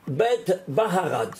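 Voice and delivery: Baharad drawn out slowly, each syllable given weight; slow teacher's spelling of Baharad. Shown as a demonstration. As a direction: spell out Baharad deliberately, like on the board. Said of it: "je l'amène ici en grand".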